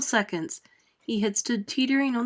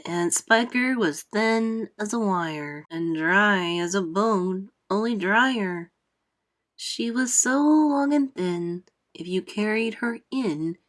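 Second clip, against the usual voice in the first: centipede reciting; slower than usual. Acted. Centipede recites his song.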